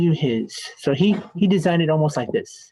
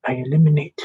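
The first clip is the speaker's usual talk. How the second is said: lightly put-on Russian accent; clumsy mock Russian accent; attempted Russian accent; faster than usual. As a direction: have a go at sounding Russian. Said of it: "I can't do it".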